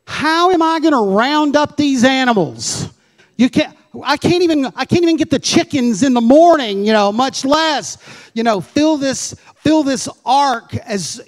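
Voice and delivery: a worried builder who can't even catch his chickens; flustered Noah. Retold or imitated. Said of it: "I'm sure Noah's going".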